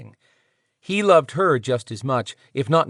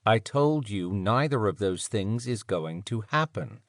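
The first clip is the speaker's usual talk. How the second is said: smooth voice; 2 semitones lower, 4 dB quieter than usual. Acted. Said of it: "smooth voice said".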